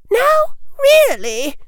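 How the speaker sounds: very high, slow simpering woman; sugary high official lady; prissy lady voice. A narrator's reading. Woman in pink makeup voiced.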